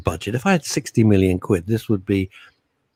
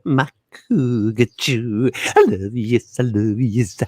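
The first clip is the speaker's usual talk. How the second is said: Impression of a singer; slower than usual. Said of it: "your Alvin Stardust impression".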